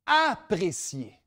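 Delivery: Apprécier said slowly and deliberately; slow emphasis. Shown as a demonstration. Speaker to students, stressing Apprécier slowly. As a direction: linger on Apprécier as the right word. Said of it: "Pas dénigrer".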